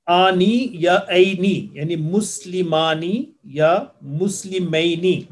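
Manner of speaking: drawn-out آنی and اینی, each vowel stretched; slow sound demo. Shown as a demonstration. Teacher drills the two dual endings for students, slow demo. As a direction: model مسلمانی and مسلمینی slowly, syllable by syllable. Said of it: "اور یہ sound ہوتی ہے".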